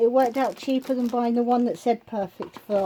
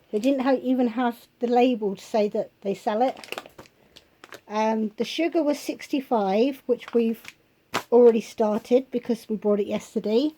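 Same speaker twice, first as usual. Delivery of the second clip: hoarse voice. Real, not acted. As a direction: voice going hoarse, a little rough. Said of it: "Sorry, my voice is going".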